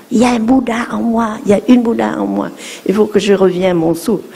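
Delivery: fast, urgent inner mantra; quick self-reminder. Shown as a demonstration. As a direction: rattle it off quickly to calm down. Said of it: "on doit dire". (mantra récité vite et pressé)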